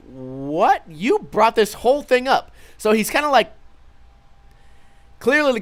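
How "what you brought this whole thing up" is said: drawn "What?" rising into high-pitched protest; incredulous. Retold or imitated. Retelling his reply to the bar bully, incredulous. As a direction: act out baffled disbelief, pitch climbing.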